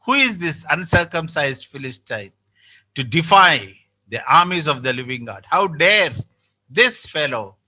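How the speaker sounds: scornful, demanding who dares defy God; a touch of David's indignant tone; mildly defiant rhetorical challenge. Shown as a demonstration. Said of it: "that's how his tone is".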